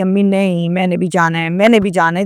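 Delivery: lightly voiced stubborn child, pleading to come along; just a hint of a kid nagging her mother; childish insisting. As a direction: daughter begging her mother to take her along, mildly childish. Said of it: "جیسے بچے ضد کرتے ہیں".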